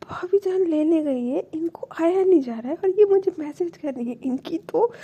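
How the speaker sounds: retold sudden anger. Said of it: "एकदम से गुस्से में आ जाती है".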